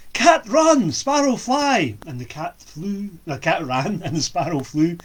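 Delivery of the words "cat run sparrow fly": loud, high urgent call; shout. Acted. Young lad shouting to the cat and sparrow for rescue. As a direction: cry out for help. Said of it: "The young lad shouted".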